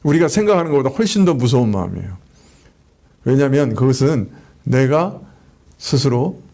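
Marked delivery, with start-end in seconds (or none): none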